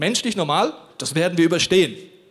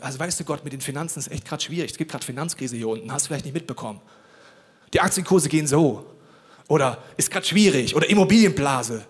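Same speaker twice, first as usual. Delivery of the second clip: mock worried prayer; 3 dB louder than usual. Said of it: "wir versuchen, Gott das zu erklären".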